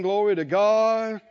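ordinary talk

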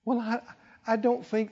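gentle timid protest; sweet, soft voice. Shown as a demonstration. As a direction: say it sweetly, almost apologetic. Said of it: "They, they didn't say it in a sweet voice".

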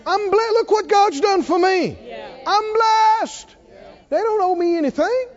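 high, loud, joyful proclaiming; loud declaration. Shown as a demonstration. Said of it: "speak right up out loud".

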